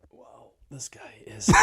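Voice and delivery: breathless whisper. Real, not acted. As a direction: whisper it in shock. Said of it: "whispered reaction".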